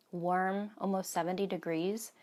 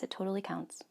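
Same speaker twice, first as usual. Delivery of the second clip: whisper; 7 dB quieter than usual. Real, not acted. Joking reassurance to herself.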